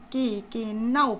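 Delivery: slow, loud stuttering yes; stammering agreement. Acted. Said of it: "pflichtet ihr Bernhard Vogel bei". (langsames, stotterndes Zustimmen)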